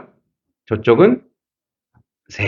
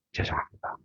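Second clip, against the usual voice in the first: barely audible, whispered apology; hushed, deferential murmur, acted out; meek apology; 17 dB quieter than usual. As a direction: shrink down to a tiny voiceless sorry. Acting out his meek public apology.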